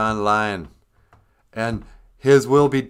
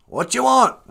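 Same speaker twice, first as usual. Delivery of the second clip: god voice; 11 semitones higher, 6 dB louder than usual. Acted. Speaker voices Gitche Manadu answering prayer.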